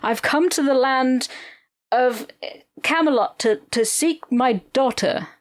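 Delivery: put-on an American's stagey British accent, daughter with an American r; hammed-up theatrical British knight, daughter rhotic; fake British accent. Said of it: "American playing a Brit and they say".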